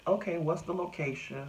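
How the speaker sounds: dispatcher asking. Retold or imitated. Dispatcher on the phone asking for his location, brisk official voice.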